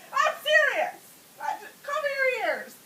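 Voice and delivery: high, frantic order to the room; yelling out. Retold or imitated. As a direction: call it out in mock panic. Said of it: "So I yell out at everybody".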